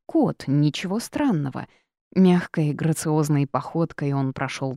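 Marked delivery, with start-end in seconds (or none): none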